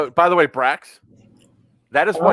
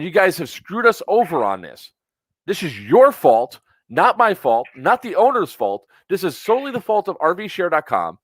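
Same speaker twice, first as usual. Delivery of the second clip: firm blame. Real, not acted. Blaming company on complaint call.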